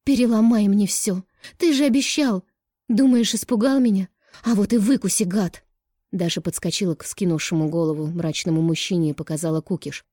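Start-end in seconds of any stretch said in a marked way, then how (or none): 0.0-5.6 high, loud tearful scream of defiance; shouted defiance. A narrator's reading. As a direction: dare him, screaming. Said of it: "выкрикнула".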